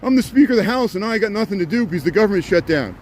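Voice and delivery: a hammed-up whine at a politician; sarcastic whiny impression of a politician complaining; mock whine. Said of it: "Mike Johnson's whining because he's like".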